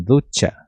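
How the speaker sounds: "ducha" with CH said as a crisp tch; tch sound. Shown as a demonstration. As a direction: model "ducha" as DOO-tcha. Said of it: "ele tem o tom de T C H". ("ducha" com som de tch)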